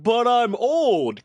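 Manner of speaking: very slow, high mock excuse; exaggerated sing-song parody of an excuse; mocking imitation. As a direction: drag out each word to ridicule the plea. Mimicking coworker's stock excuse.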